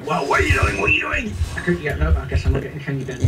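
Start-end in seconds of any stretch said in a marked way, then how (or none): 0.0-1.3 high what are you doing; indignant surprise. Acted. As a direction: protest in high shock. Indignant at intrusion.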